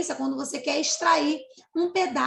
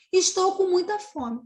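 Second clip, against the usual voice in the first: hungry cicada; 5 semitones higher than usual. Acted. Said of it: "A cigarra vai falar".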